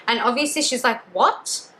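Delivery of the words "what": high-pitched, disbelieving delight; happy and excited. Retold or imitated. Captive told she may visit her family, happy and excited. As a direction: imitate an overjoyed, excited thank-you. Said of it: "super happy, happy and excited".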